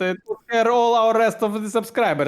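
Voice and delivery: attempted Russian accent; Russian-accented English, loosely done. Shown as a demonstration. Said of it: "if I put my Russian accent".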